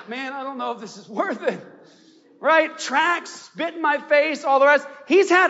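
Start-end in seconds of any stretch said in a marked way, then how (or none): 0.1-1.6 quiet, deflated mutter of doubt; discouraged sigh. Retold or imitated. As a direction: let it sag, tired and beaten down. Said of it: "and you're like".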